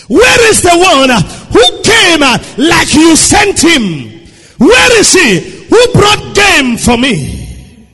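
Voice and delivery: high shouting where is the one; preached demand. Acted.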